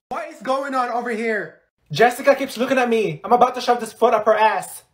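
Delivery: high-pitched indignant outburst; angry complaint. Acted. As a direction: threaten the girl who keeps looking. Complaining about being stared at.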